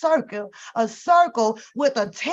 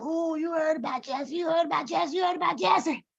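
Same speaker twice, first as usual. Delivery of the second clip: hushed higher gossip, repeated; gossiping relative; 6 semitones higher, 6 dB quieter than usual. Retold or imitated. Family calling around, gossiping about Jesse's arrest. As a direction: whisper the rumour like an auntie on the phone. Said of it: "Family start calling around".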